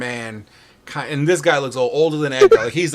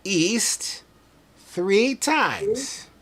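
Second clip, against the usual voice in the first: put-on old man voice; 4 semitones higher, much slower than usual. Old man NPC signing off.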